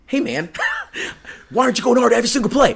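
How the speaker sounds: fast, high, loud coaching bark; mock coach yell. Imitating his dad yelling at him mid-practice, fast loud bark. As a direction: rattle it off like an impatient coach.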